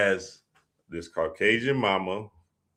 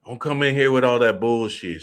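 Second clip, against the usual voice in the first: mildly imitated scolding mother; retold motherly telling-off; cussing mama; 3 semitones higher, 3 dB louder than usual. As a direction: scold like a fed-up mom, a bit higher. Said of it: "She cussing and everything".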